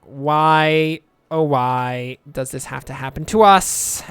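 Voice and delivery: slow, drawn-out mock panic; slow mock lament. Townsfolk lamenting the meteor, slow mock lament. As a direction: wail like doomed townsfolk. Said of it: "Everyone else is like".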